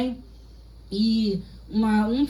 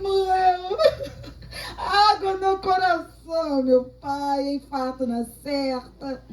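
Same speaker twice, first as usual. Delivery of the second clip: mock crying; 3 semitones higher, much slower than usual. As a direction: play a false mourner wailing over bad news. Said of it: "Tem gente que tá do teu lado chorando". (choro fingido e exagerado, com voz mais aguda)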